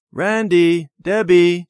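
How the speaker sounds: loud, high call across the park. A narrator's reading. Cousin calling the wandering children, loud call. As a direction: call the children back sharply. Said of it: "she called".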